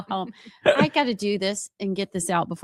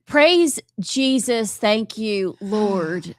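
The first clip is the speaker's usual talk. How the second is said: slow, loud hallelujah; drawn-out thankful praise; mock praise; 5 dB louder, much slower than usual. Real, not acted. Relief the election ends.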